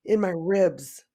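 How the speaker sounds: slow, pained through the cramp; breathing through rib pain; stomach cramps. Real, not acted. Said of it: "I'm cramping really bad".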